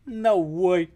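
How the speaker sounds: high, loud put-on character voice; quoting a video gecko. Crocheter quoting an old YouTube gecko, loud character voice. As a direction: blurt it like a cartoon gecko. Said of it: "Anybody know what I'm quoting there?".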